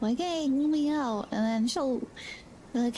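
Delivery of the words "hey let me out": higher, lightly whiny plea as the dog; playful mock whine, raised pitch; mock whining dog. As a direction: imitate a dog whining to get out. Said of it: "start whining and stuff".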